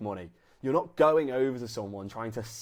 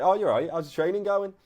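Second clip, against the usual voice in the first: casual greeting; 6 semitones higher, 4 dB louder than usual. Shown as a demonstration. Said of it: "it needs to feel like they think they know you".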